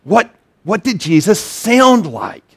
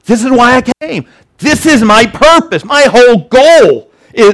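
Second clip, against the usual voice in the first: emphatic declaration; 5 semitones higher than usual. Acted. Preacher voices Jesus declaring his purpose.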